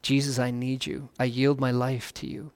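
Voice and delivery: a gentle whispered-feeling confession, still voiced; quiet prayer. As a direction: say it softly, like a bowed-head prayer. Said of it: "call upon the Lord and say".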